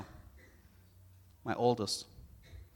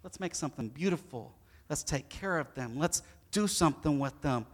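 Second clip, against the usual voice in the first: gentle God; 3 semitones lower, 3 dB quieter than usual. Pretend. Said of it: "God took the time to say".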